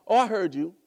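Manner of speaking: loud, offhand brush-off; dismissive. Retold or imitated. Dismissive friend brushing someone off. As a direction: toss it off carelessly. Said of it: "he mean to hear you like".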